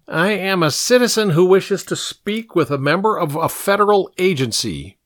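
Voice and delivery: high-pitched, self-important formal declaration; dignified boy. A narrator's reading. Pink insisting on seeing a federal agent, dignified. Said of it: "Pink said with dignity".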